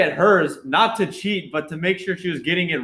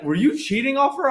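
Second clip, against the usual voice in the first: higher-pitched questioning voice; retold accusation; 9 semitones higher than usual. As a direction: imitate a teacher catching a cheat. Acting out teacher's accusing question.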